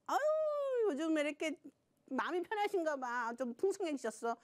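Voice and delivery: sugar-coated churchgoer's jab, lightly acted; fake niceness. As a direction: deliver a veiled dig as a friendly remark. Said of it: "좋게 얘기하는 것 같은데". (좋게 말하는 척 은근히 비꼬며)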